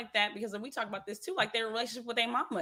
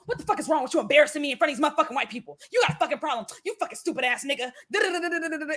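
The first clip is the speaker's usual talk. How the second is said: rapid-fire mock scolding; mama berating son; 4 semitones higher, much faster than usual. Mama cussing out her embarrassing son, mock angry rant. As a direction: imitate a mother's angry tirade, running into da-da-da. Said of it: "that's how they talk to their sons".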